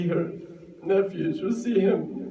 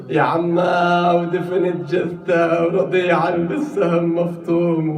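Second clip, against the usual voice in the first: mournful lament; 3 dB louder than usual. Acted. Nephew laments to aunt.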